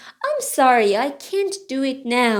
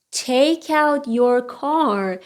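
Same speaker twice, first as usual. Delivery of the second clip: slow, word-by-word pronunciation model; slow model reading; much slower than usual. Shown as a demonstration. Teacher repeats the garbage sentence for learners, slowly. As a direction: spell out each word slowly.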